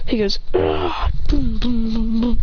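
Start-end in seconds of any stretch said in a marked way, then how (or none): 0.5-1.1 low rough "ah" on impact; acted hit reaction; mock grunt of pain. Character is struck. 1.3-2.4 rhythmic booming hit noises; imitated blows.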